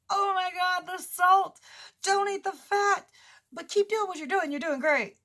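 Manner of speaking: high, loud mock panic; freaking-out doctor. Doctor scolding a patient about diet, freaking out. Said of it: "my doctor over here freaking out going".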